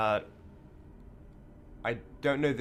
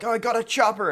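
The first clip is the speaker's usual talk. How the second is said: mock excited; 11 semitones higher, 7 dB louder than usual. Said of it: "his friend is like".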